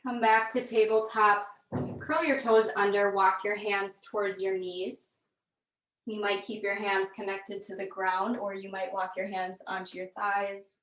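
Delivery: calm, measured yoga-class delivery with long pauses; guided yoga instruction. Real, not acted. Yoga teacher leading students through gentle movement, calm guided instruction.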